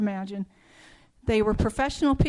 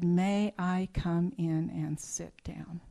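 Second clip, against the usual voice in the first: slow, softer whispered question; hushed whisper; 4 semitones lower, 5 dB quieter, slower than usual. Retold or imitated. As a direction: whisper it as if shaken. Shaken policeman asks quietly.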